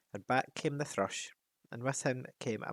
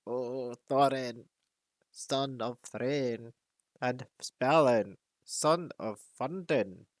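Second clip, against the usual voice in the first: put-on slow, croaky old raven greeting; an ancient raven croaking out names; 4 dB louder, slower than usual. Old raven hails Thorin, slow croaking voice. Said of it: "he croaked".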